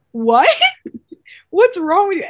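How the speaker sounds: playfully outraged at John; a touch of disbelieving yell; mock outrage. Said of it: "And I was like".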